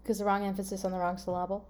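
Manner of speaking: quick, soft, with syllable stressed as sylLAble; quickly mis-stressed syllable; misplaced stress. Shown as a demonstration. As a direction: lean on LA in syllable, in passing. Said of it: "syllable's broken for me now".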